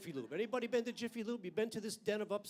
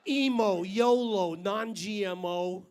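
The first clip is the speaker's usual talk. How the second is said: punched list words; 8 dB louder, much slower than usual. Acted.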